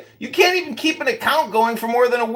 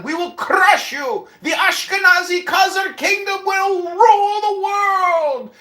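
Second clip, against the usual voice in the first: mock ranting shout; hammed-up conquering warlord rant; barbarian; 5 semitones higher than usual.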